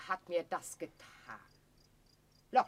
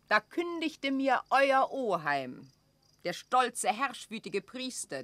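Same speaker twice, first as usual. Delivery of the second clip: indignant outburst; 5 semitones higher, 5 dB louder than usual. Acted. Elizabeth raging at her accuser.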